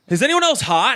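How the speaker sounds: high-pitched plea for help; mock distress. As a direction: retell a queasy, uneasy question. Retelling his seasick panic aboard.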